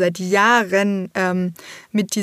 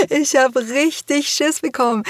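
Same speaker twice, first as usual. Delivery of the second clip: mock scared; 6 semitones higher than usual. Shown as a demonstration.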